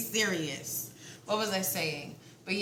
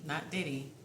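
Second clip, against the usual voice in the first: words breaking into giggles; can't keep a straight face; laughing. Real, not acted. Reader giggling at her own reading. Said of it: "I got the giggles".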